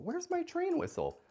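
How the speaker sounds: high loud hammed-up all aboard; playful train conductor shout; mock conductor.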